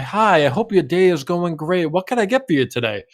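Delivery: cheery barista. Retold or imitated.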